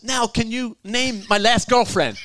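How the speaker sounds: laughing through an imitation of Bernie, slowly. Slow laughing impression of Bernie asking about his ex. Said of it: "He goes".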